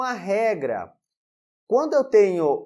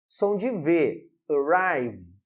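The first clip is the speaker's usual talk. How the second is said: ordinary delivery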